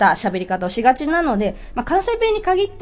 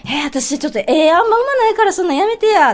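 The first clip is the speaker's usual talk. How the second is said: Kansai dialect demo; 4 semitones higher than usual. Shown as a demonstration. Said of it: "って言いますね".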